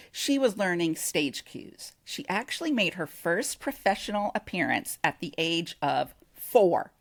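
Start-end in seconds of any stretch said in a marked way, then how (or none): 5.4-6.9 breathy dramatic whisper. Real, not acted. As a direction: hush it for effect.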